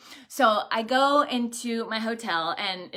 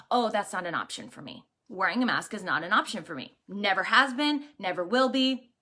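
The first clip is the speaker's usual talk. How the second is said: mildly calm, matter-of-fact refusal; calm, confident, kind; 2 semitones lower than usual. Retold or imitated. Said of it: "I say it very calmly, very confidently, and very kindly".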